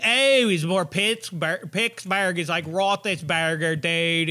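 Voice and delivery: hammed-up Pittsburgh accent; attempted Pittsburgh accent. Shown as a demonstration. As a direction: have a clumsy go at Pittsburgh dialect. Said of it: "I can't mimic it at all".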